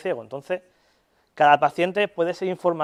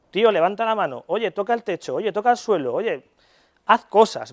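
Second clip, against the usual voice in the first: mock commands to patient; 3 semitones higher than usual. Shown as a demonstration. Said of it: "es decirle que haga algo".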